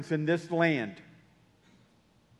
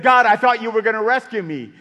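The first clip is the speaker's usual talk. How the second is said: indignant; 3 semitones higher, 8 dB louder, faster than usual. Retold or imitated. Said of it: "put his hands on his hips".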